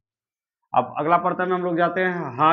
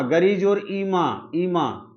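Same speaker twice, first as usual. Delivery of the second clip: slow breakdown; much slower than usual. Shown as a demonstration. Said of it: "teacher slowly breaking a word apart".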